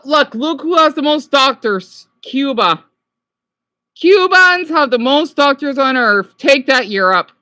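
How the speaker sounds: loud, emphatic gloat; triumphant jeer. Real, not acted. American viewer scoring a point against Europe, gloating. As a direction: declare it loudly to rub it in. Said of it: "Didn't mean to sound like a jackass".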